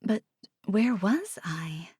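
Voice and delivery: soft slow whispered aside; hushed aside. Real, not acted. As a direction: breathe it, half to yourself. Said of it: "whispered aside to listener".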